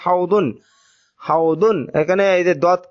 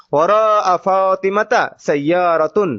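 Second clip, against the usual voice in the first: slow dictation; slower than usual. Shown as a demonstration. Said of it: "teacher reads Arabic example".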